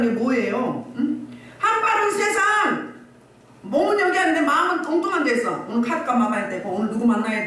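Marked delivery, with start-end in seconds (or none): 1.6-5.6 preaching shout. Real, not acted. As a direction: hurl it at the congregation. Preacher rebuking half-hearted believers.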